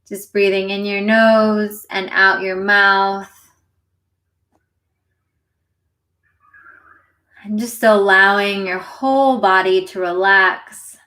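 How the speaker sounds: unhurried meditation guide, long pauses between phrases; guided meditation. Acted. Meditation teacher leading listeners into their breath, guided meditation. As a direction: gently lead listeners through it, leaving space to breathe.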